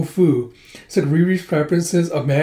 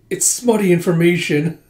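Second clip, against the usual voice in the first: acted reply breaking into laughter; laughing echo; 3 semitones higher than usual. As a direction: repeat it, cracking up at the end. Acted repeat, narrator laughing.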